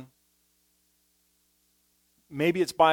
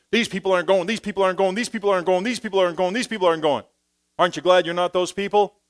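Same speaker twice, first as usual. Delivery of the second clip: louder, higher mock self-righteous voice; self-righteous Paul; 4 semitones higher, 5 dB louder, faster than usual. Imagined legalist Paul judging the Corinthians, mock self-righteous. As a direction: sneer it like a legalist pointing fingers. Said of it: "what he would have done is said".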